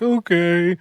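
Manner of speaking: slightly high little-kid whimper, mimicked; imitated crying. Crying Yuvi lets coach sit beside him, mimicked whimper. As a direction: give in like a tearful child, mildly acted. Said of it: "he's just crying and crying and crying".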